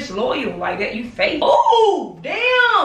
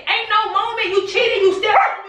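raised, heated accusations; angry outburst; 7 semitones higher than usual. Real, not acted. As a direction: let the anger burst out high. Caught out by pregnancy prank.

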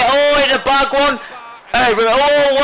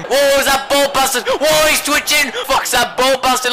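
shocked whoa; 7 semitones higher than usual. Real, not acted. Reacting to a foul.

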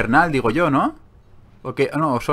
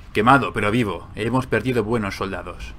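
lightly voiced low, grave report; grave soldier; 5 semitones lower than usual. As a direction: report losses like a sombre soldier. Reads weary character's game dialogue.

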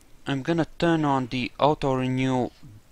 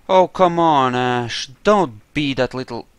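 loud exasperated outburst; frustrated yell; 7 dB louder than usual. Real, not acted. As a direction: vent at the stubborn companion. Frustrated at companion in fight.

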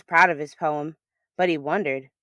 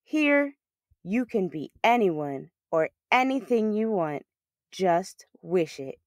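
echoing dream voice. Acted. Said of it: "a voice that echoed all around him".

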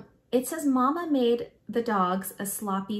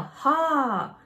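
higher, louder call to the dogs; yelled command; 5 semitones higher, 6 dB louder than usual. A narrator's reading. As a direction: yell it out to turn the team. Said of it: "I yell".

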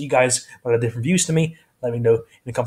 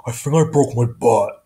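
Patrick Star; 2 semitones lower than usual. Shown as a demonstration. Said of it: "This guy is Patrick Star".

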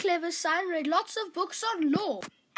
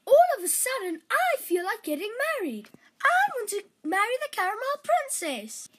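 a touch higher, eager pleading; eager youngest son; 4 semitones higher, 3 dB louder than usual. Acted. Dan telling his father he wants to marry, lightly eager. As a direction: bubble over with sudden excitement.

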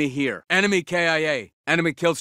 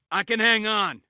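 higher, urgent battle call; strained callout; 5 semitones higher than usual. Acted. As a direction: call it out under pressure. Combat callout, holding out.

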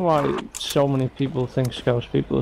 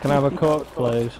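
put-on Darlington accent. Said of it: "Yeah, that's what you say".

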